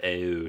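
"oh" as a fronted "eh-oh"; Philly O. Retold or imitated. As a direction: imitate the Philly vowel in "oh". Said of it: "whenever she hears that".

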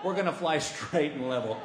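soft low relieved sigh of words. Retold or imitated. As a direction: mutter your relief. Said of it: "I'm thinking".

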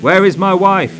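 urgent angry demand. Acted. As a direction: demand an answer from the medium. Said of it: "demanded Griffiths".

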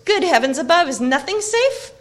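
high, loud, scandalised exclamation; exasperated cry. A narrator's reading. Frodo finding his secrets are not safe, exasperated cry. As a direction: cry out in dismay, stretching the last words. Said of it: "cried Frodo".

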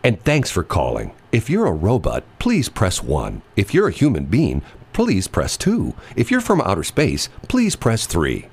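slow phone menu voice; automated voice. Shown as a demonstration. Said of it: "my best, uh, automated voice".

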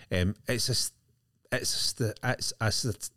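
stumbling as if teeth loose; loose dentures. Real, not acted. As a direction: trip over the word, teeth slipping. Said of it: "put my teeth in".

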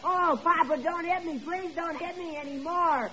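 high, distant mock-pained begging; hammed-up wailing plea; faked pleading. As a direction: pretend to beg off a beating. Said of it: "you yell kind of loud".

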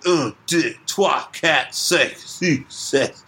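lightly voiced kids' TV teacher counting in French; mock French counting. Recalling French lessons on Canadian Sesame Street, lightly mocking. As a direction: count off un, deux, trois like a Canadian children's show. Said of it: "Learn how to count in French".

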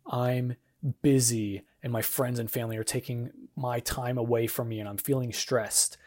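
mildly weary complaining tone; weary stressed complaint. Shown as a demonstration. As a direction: sigh it out like everything is a burden. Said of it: "Even in my tone of voice".

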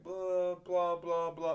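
mock chatter, sustained blahs; mildly silly. Pupil showing bad behaviour, mildly silly babble. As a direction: imitate a pupil babbling over someone. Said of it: "being silly, but not very silly".

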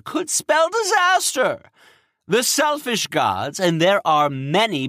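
high, strained worried voice; anxious king. Acted. Cronus panicking voice.

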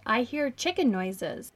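slow, puzzled dad voice; quoting dad. Retold or imitated. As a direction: say it slowly like a baffled dad. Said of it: "So he calls my mom over and says".

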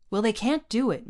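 defiant outburst; cried out. A narrator's reading. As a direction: throw it out in protest. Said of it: "Mario cried".

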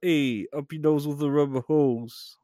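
a light Welcome Back Kotter impression; John Travolta. Shown as a demonstration. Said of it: "I would always do a John Travolta".

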